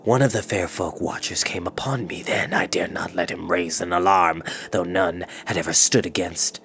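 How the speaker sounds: a hint of a low, sneering old wizard; cold scorn of a wicked wizard, lightly voiced; lightly voiced wizard Morda. Wizard gloating to his captives, lightly voiced sneer.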